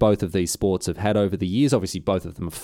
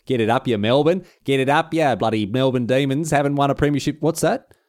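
taunting footy fan; 5 semitones higher than usual. Pretend. Fan taunting Melbourne supporters, gloating. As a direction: rub it in the rival fans' faces.

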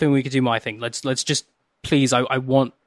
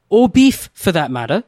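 exasperated; 4 semitones higher, 3 dB louder than usual. Acted. Acted argument with cook.

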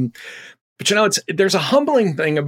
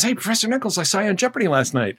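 student voice; 5 semitones higher than usual. Retold or imitated. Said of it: "He walks up to me, he says".

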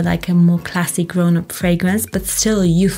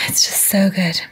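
whisper. Real, not acted. Whispered praise of the perfume.

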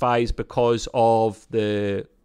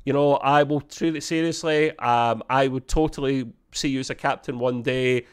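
mock reassuring; 3 semitones higher than usual. Rutherford makes up with Tendi, lightly voiced reassurance. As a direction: reassure her in a lightly put-on voice. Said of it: "he's like".

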